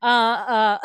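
hammed-up stuttering uh uh; mock stammer on request. Cohost asks her to say uh again, so she hams up a stammer. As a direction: stumble on purpose through filler. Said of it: "Say, "Uh," again".

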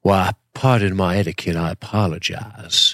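put-on Southern gentleman vampire accent; put-on Southern drawl. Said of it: "You do sound like Bill".

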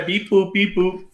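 choppy mock robot beeps. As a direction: beep it out like a cheap robot. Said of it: "talking like a robot for the rest of your life".

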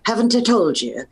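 put-on a light Irish brogue as a scolding old woman. Shown as a demonstration. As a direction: give them a quick Irish brogue for a lassie. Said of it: "Can you demo an Irish brogue for us?".

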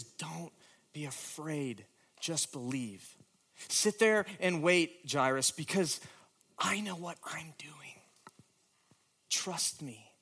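gentle reassurance. Acted. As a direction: speak as a calm, trusting friend. Jesus voiced gently to Jairus.

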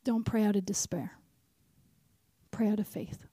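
hushed, unvoiced whisper; whispered divine correction. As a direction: whisper it as a quiet word from God. God gently interrupts her wailing.

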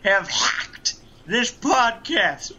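loud, brash wrestler promo voice; boastful wrestling villain, shouting; Ric Flair impression. Plays the Nature Boy, Ric Flair.

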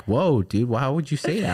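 high, exaggerated mimicry of partner; mocking impression. Mimicking partner's reaction to the joke, high and mocking.

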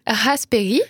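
English word in an attempted English accent; French speaker trying English pronunciation. Real, not acted. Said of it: "je l'ai encore dit avec un accent".

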